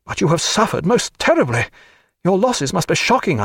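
a jovial captain gushing over the battle; Captain Muffet, triumphant. Acted.

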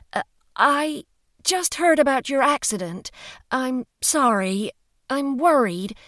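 worried woman pleading on an answering machine; anxious Hollis. A narrator's reading. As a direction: stumble nervously through a voicemail. Hollis leaves awkward phone message.

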